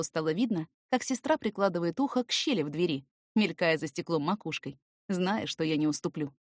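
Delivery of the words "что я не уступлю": plain reading voice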